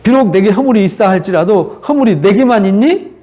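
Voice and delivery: mildly challenging, lifted rhetorical questions; Job's reproach. Acted. Job to his arrogant friends, mild reproach. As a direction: throw the blame back with mild indignation. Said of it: "이렇게 책망하면서".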